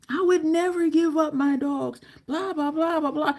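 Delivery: mocking rant fading into blahs. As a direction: mimic him going on and on. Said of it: "he was going on and on".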